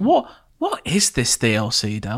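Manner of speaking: very slow, swooping, insincere fake curiosity. Asking another speaker about their game's DLC: insincere, feigned interest. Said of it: "You sounded so insincere".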